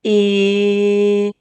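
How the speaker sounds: "I" as the short i of fish, held long; isolated vowel sound. Shown as a demonstration. Teacher names the vowel heard in fish, holding "I" as "ihhh". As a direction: hold "I" as a steady short "ih". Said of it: "I heard the".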